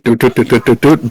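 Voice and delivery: quick run of doot noises; little doot-doot trotting sounds; imitated kobold trotting. Game master sounding out the kobold's trot, imitated doots.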